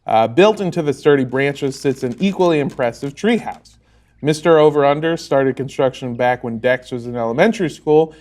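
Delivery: game master's storytelling voice; scene-setting narration. A narrator's reading. Game master describes the backyard treehouse, storytelling.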